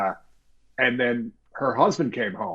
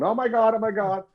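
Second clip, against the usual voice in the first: wife gasping oh my God; 9 semitones higher than usual. Retold or imitated. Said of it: "the wife was going".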